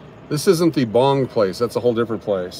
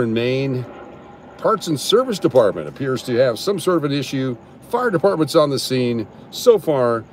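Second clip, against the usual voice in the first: mock live TV reporter; lightly hammed-up news anchor; newscaster voice. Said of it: "it's time to break out the newscaster voice".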